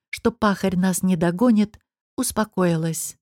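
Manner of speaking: ordinary delivery, nothing marked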